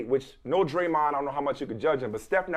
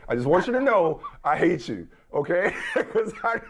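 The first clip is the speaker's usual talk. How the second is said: laughing; 3 semitones higher than usual. Real, not acted. Laughing while teasing co-host.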